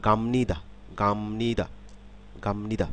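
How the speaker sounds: "গামনিদা" with a humming m before নি; assimilated m sound. Shown as a demonstration. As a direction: run "গামনিদা" together, m into n. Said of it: "ম হবে".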